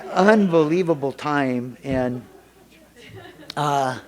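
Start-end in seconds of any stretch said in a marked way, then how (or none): 0.1-1.8 slow, louder, laughing through it. Real, not acted. Speaker to the meeting, laughing. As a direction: still laughing from the story.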